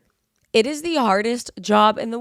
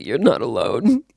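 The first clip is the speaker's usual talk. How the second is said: "you're not alone" said lower and earnest, meaning it; sincere; 7 semitones lower than usual. Shown as a demonstration. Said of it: "but, like, actually".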